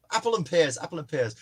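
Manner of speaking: lightly tried-out Cockney; brief practice run at Cockney; Cockney accent attempt. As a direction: test a Cockney accent under your voice. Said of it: "who can do a Cockney accent then".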